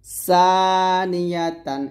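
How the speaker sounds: সানিয়াতান with clear hissing s, slowly stretched; sharp sin. Shown as a demonstration. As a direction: hiss the first s of সানিয়াতান, draw out the vowels. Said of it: "এখন সা বলতে হবে".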